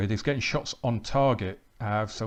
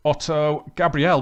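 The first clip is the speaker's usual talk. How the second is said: higher and louder names as danger builds; rising alarm; 5 semitones higher, 6 dB louder, slower than usual. Real, not acted. Danger building before the goal.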